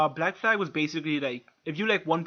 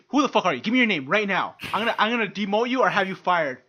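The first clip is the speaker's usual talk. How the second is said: pitched-up indignant threats; hammed-up outrage; mock angry rant; 4 semitones higher, 4 dB louder than usual. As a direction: demand their name like an entitled boss. Acting out an angry confrontation.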